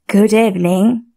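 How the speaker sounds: a lightly voiced snake, barely changed; snake's reply. Snake answers the prince's greeting.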